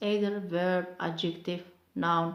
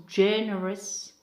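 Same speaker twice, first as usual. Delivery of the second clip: "generous" as JEN-erous; stress on first syllable; 4 dB louder than usual. Shown as a demonstration. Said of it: "mark stress on the first syllable".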